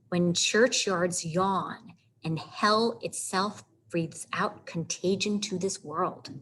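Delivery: "when churchyards yawn and hell itself breathes out" slowly, running over the line break; read through punctuation. Shown as a demonstration. Teacher reading Hamlet's soliloquy by its punctuation, measured flow. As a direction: carry "hell itself breathes out contagion" on as one thought. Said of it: "You read from punctuation mark to punctuation mark".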